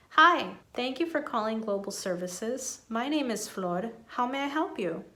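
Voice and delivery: smiling, clear phone voice; friendly call center greeting. Shown as a demonstration. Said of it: "This is how it would sound altogether".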